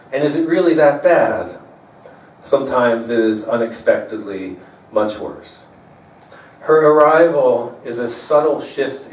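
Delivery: measured, understated poem delivery; poetry reading. Acted. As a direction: read a love poem to an audience, pausing between lines. Reads own poem to audience.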